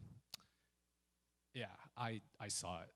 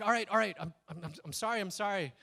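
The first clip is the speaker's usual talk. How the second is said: retold relenting; 6 semitones higher, 4 dB louder, faster than usual. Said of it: "he relented and was like".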